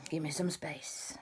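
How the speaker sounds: whispered order; hushed command. Acted. Superman to the crowd, whispered request. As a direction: quietly clear them back.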